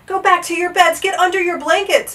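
high, loud urgent call; crying out. A narrator's reading. Bartholomew to frightened lords and ladies, crying out. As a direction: call it out like an order through the halls. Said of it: "Bartholomew Cubbins went crying through the halls".

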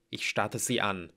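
ordinary delivery, nothing marked

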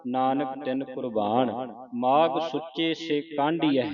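measured recitation with drawn-out line endings; scripture recitation. Shown as a demonstration. Teacher reads scripture for students to follow, measured recitation.

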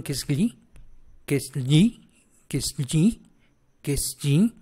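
gli as a palatal ly, close to j; gli sound demo. Shown as a demonstration. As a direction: repeat gli carefully with rising tune, no hard g. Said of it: "se me hace muy difícil esta pronunciación".

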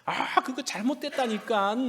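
mildly worked-up, drawn-out protest; acted exasperation, stretching the words out slowly; heated insistence. Arguer insisting the other is wrong, heated. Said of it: "열이 올라오기 시작해요".

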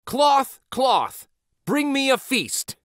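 high eager call to the cloth; eager command. Acted. Boy at the inn calling on his magic cloth, eager and high. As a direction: call out the magic words with glee.

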